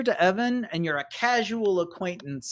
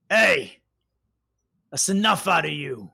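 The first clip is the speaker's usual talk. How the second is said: confrontational shout; 4 dB louder than usual. Acted. Hatch, intolerant of listeners, calls out Trilby, confrontational. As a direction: shut someone down from across the room.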